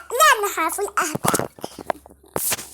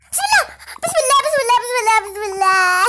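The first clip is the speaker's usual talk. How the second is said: panicked prayer. Real, not acted. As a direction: blurt the prayer out in fright. Panicked prayer after a noise.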